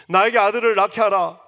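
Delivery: loud cry with weight on 아들을; anguished plea. Acted. Rachel pleading with Jacob, loud and anguished. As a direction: beg like a woman at her limit. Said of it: "라고 하면서".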